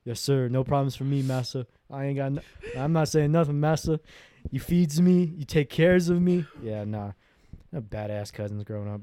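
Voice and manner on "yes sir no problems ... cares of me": lightly voiced, exaggerated servile pleading; mock servile role. Beaten-up cousin placating his bully, mock servile. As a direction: play up the meek obedience, mockingly.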